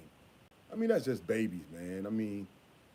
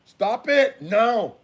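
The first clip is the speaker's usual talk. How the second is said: sharp yell; 8 semitones higher, 9 dB louder, much slower than usual. Real, not acted. Yells at child misbehaving.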